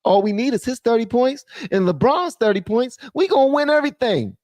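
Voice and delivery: mocking the Lakers. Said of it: "And then they figure".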